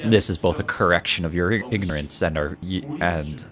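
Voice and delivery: low, measured menacing villain; calm superior villain lecturing; a hint of a cold villain; lightly voiced villain. Villain voice again.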